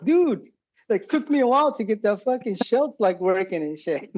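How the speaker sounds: high-pitched mock-aggrieved protest; retold exasperated complaint. Prank victim protests about his wrecked shelf, high and exasperated.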